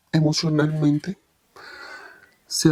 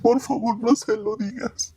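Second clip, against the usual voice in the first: higher pleading child voice, a hint of tears; child begging; 6 semitones higher than usual. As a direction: beg like a frightened little boy. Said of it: "llorando me suplicaba". (súplica de niño asustado, voz más aguda)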